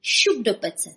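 a light hint of a cackling fairy-tale witch; gingerbread witch voice. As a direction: gloat like the witch at the oven. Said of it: "hlasem babice z pohádky".

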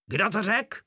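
high, cracking shriek. A narrator's reading. Captain von Páder shrieks at the mocking soldiers, voice cracking. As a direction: let the voice break upward in a screech. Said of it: "zaječel von Páder přeskakujícím hlasem".

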